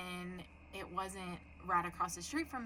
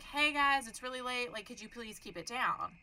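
politely pleading, higher voice; nicely; 5 semitones higher, 5 dB louder than usual. Shown as a demonstration. Demonstrating a polite request to noisy neighbors, nice and high. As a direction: ask it sweetly, opening high. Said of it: "I was gonna say it nicely".

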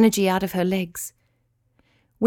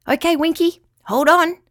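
excited; 8 semitones higher, 4 dB louder than usual. A narrator's reading. Star about to launch.

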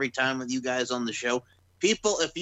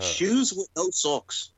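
slow emphasis; 3 semitones higher, much slower than usual. Pretend. Mock disgusted emphasis.

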